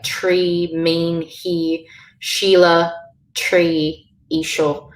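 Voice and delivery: "tree, mean, he, Sheila" each with a long ee; long E sound. Shown as a demonstration. Teacher giving examples of I with fada, long ee. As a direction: list the words apart, clear ee in each. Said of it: "changes to the sound of E".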